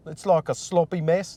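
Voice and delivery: tentative mock Australian; failed Australian accent. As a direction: have a shaky go at an Australian accent. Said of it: "No, that's not it".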